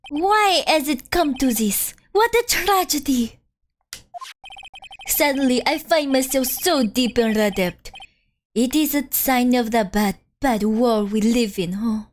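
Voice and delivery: theatrical lament in a faked French accent. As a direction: bemoan it with a put-on French accent. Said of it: "I'm kind of faking it".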